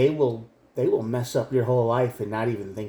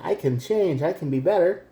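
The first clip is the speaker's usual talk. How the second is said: higher, pleading promise; mock pleading partner; 6 semitones higher than usual. Imitating the ex's high pleading promise. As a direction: whine it like the begging ex. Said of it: "the person that's screaming at you, saying".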